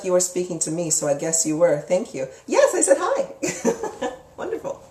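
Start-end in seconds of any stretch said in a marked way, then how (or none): 2.5-4.8 much higher, slow, giggling through it; laughing. Real, not acted. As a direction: laugh while answering the viewer. Reacting to a viewer comment.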